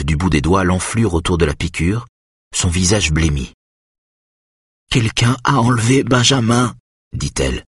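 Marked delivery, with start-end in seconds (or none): 4.9-6.8 high, weak woman's voice; insist, pitched high; distressed. A narrator's reading. Mother tells husband of abduction, high distressed voice.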